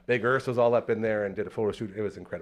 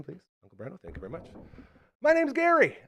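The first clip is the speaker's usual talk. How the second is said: ordinary talk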